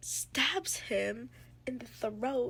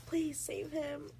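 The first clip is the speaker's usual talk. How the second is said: high, drawn-out plea; retold begging; 6 semitones higher, slower than usual. Heroine begs the High Lords for his life, retold begging. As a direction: imitate someone begging for help. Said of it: "begged them".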